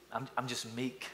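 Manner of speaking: softly mumbled, meek little admission; meek job candidate. Pretend. Job candidate answering an interviewer about strengths, meekly and very softly. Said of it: "you wouldn't go".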